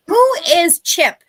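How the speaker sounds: high, slow, loud puzzled question; surprised. Real, not acted. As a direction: sound baffled by the name.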